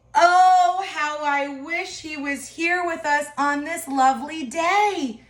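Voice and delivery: a mother's longing, lightly voiced; wistful sigh. Mother wishing for her lost son, mildly wistful.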